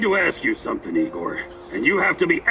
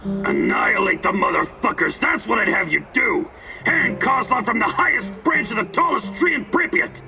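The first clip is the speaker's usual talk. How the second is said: furious, rising to a higher yell; angry shout; 5 semitones higher than usual. Acted. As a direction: bark out the demand for revenge. Furious outburst demanding revenge.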